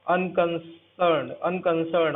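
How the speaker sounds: अनकंसर्न्ड spelled out slowly, each syllable drawn out; slow clear pronunciation. Shown as a demonstration. Teacher drilling a vocabulary word for students, slow and clear. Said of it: "मैं आपको फिर से एक बार बता देता हूँ".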